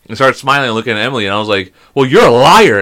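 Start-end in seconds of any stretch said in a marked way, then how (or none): 1.9-2.8 loud mock-accusing call; retold yell. Dad retelling his yell at a lady by her car, mock yell. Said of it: "And I yelled at her".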